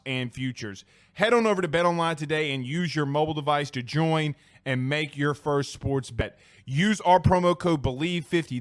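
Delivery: steady sponsor read, slowed on key details. Acted. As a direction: read the spot like a radio ad.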